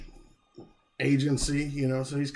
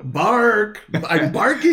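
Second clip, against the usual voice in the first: playful dog voice; 6 semitones higher, 6 dB louder, much slower than usual. Pretend.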